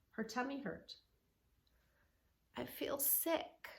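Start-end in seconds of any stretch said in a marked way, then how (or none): 2.6-3.7 put-on small sick girl. Scared little girl voiced.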